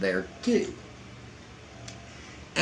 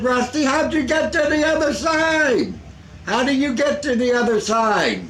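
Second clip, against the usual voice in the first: mock puzzled; 14 semitones higher, 4 dB louder than usual. His own puzzled self retold.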